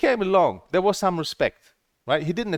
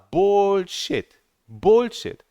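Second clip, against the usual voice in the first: higher, louder, spitting the word out; real angry outburst; 6 semitones higher, 4 dB louder, much slower than usual. Real, not acted. Streamer fuming to viewers about unfair moderation, angry outburst. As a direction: let the frustration burst out.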